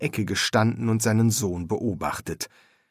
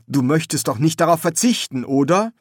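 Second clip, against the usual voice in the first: raised, louder coaxing with rising tag; coaxing appeal; 5 semitones higher, 4 dB louder than usual. Acted. Son urging his dead father to accept, coaxing appeal. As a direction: coax him, voice lifted.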